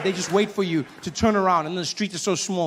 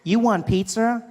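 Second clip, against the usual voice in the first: slower, higher assistant voice; lightly voiced Siri; 4 semitones higher, slower than usual. Phone assistant mishearing owner, lightly imitated Siri. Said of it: "she talks to you".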